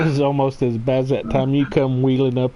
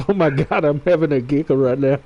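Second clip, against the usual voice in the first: retold giggling; 3 semitones higher than usual. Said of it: "Sarge says".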